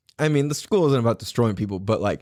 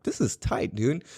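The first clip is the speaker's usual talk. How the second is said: quiet aside; 3 semitones lower, 5 dB quieter than usual. Retold or imitated. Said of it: "and I was like".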